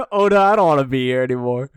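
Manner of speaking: loud, rushed protest; real dismay. Real, not acted. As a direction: complain loudly to the author, half laughing. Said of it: "I hate this".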